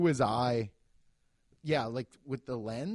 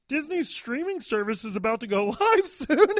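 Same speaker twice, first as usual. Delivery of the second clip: loud, higher hyped text reading; mock announcement; 9 semitones higher, 5 dB louder than usual. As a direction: read it like a breathless promo. Reading cousin's text aloud.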